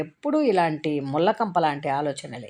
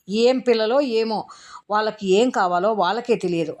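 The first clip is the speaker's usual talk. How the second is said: grumbling annoyance; 4 semitones higher than usual. Acted. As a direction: complain with a fed-up sigh in the voice. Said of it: "విసుక్కుంటూ".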